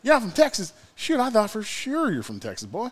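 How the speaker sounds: hammed-up surprised Southern guy; shitty Caleb Copeland. Caleb sure the cook is from Texas, very high mock Southern voice. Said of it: "I did such a shitty Caleb Copeland".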